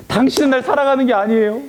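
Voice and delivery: 들릴라가 삼손을 원망하며 토라진 듯 높은 목소리로; reproachful Delilah. Acted. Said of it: "하면서 막, 원망을 하는 거예요".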